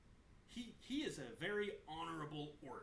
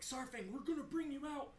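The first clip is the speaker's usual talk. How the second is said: higher and louder call to a prisoner; 9 semitones higher, 3 dB louder than usual. Retold or imitated. Player calling out to Saurfang in the prison, loud call. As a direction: call out to him to get him moving. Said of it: "you're like".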